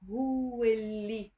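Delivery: هو اللي run together as "hu-lli"; liaison. Shown as a demonstration. Teacher modelling the liaison in هو اللي. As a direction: glide هو straight into اللي. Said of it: "say it with a liaison".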